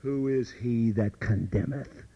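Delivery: "Who is he that condemneth?" asked low and slow, rising at the end; low quoted question. Shown as a demonstration. Paul quoted asking, low and slow rising question. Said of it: "Paul asks".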